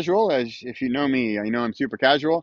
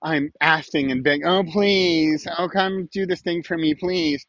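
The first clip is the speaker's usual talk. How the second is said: mock begging; 4 semitones higher than usual. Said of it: "It's not".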